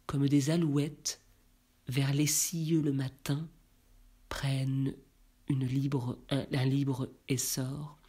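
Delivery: measured, even-pitched verse reading; poem recitation. Acted. Reader recites Baudelaire's Élévation before commenting, solemn poetry recitation.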